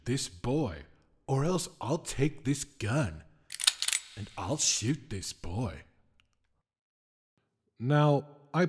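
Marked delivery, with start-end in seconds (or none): 0.1-5.8 a hint of a smug spirit, bright and pushy; the whim offers salvation at gunpoint, mildly menacing; lightly voiced whim. Whim makes threatening offer.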